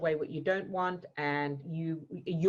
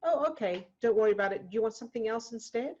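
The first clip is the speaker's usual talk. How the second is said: higher, easygoing carer's voice; kind carer; 5 semitones higher, faster than usual. Retold or imitated. The boarding school woman, reimagined as kind, higher and easy. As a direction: let the child off the hook kindly. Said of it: "she goes".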